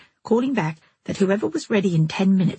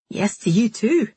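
terse; 4 semitones higher than usual. A narrator's reading. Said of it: "He sounded terse".

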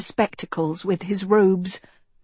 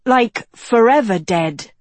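put-on higher, louder girl's voice; girl agreeing; 5 semitones higher, 7 dB louder than usual. A narrator's reading. Girl agreeing with the young king, emphatic. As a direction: back him up in a higher voice. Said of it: "Agatha agreed".

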